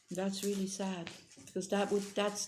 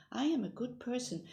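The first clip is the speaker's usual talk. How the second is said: affirmation demo; 6 semitones higher than usual. Shown as a demonstration. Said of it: "integrate that into your life".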